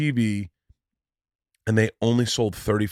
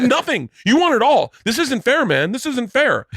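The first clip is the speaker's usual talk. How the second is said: high, whining protest, lightly mocked; mock-petulant high whine; whiny angry dad; 12 semitones higher, 4 dB louder than usual. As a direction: mimic a sore loser complaining. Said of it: "visibly angry".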